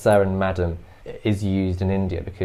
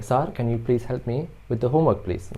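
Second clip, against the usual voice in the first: put-on Indian accent; 3 semitones higher than usual. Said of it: "you would hear an Indian person saying".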